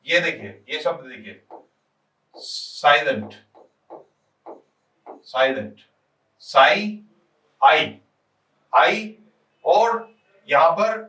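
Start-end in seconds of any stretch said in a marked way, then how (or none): 6.4-9.2 "साई" as its own syllable, then "आई" repeated; syllable demonstration. Shown as a demonstration. Teacher showing where silent splits into syllables, separated sounds. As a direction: sound out "साई, आई, आई" with clear breaks. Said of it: "दो syllable हो गए".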